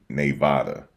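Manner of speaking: "Nevada" said as nay-VAH-duh; own accented pronunciation. Shown as a demonstration. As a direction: settle on "Nevada" with NAY as first syllable. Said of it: "Max, stop saying Nevada wrong".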